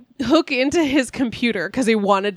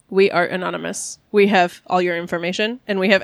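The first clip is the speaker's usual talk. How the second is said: lower, deliberate mock-menacing delivery; mock-ominous announcement, pitched down; changed, menacing tone; 4 semitones lower than usual. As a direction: imitate a scammer turning blackmailer. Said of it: "suddenly changes his tone and goes".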